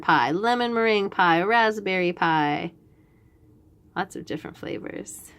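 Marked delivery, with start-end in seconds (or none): 4.0-5.3 breathy hushed whisper. Real, not acted. Hushed aside over the pie picture.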